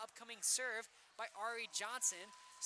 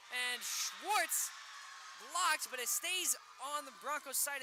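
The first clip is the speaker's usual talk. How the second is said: excited call; 4 dB louder, slower than usual. Real, not acted. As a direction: call the block as it happens. Live block during close set.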